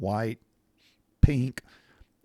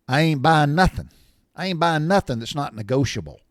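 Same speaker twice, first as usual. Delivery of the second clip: emphatic refusal, higher and louder; retold firm refusal; 5 semitones higher, 6 dB louder than usual. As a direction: put your foot down, voice raised. Retold standoff with car salesman.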